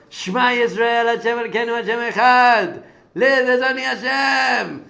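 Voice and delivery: high, loud cry of faith; shouted prayer. Retold or imitated. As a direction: cry it out to the heavens. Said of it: "He screamed out".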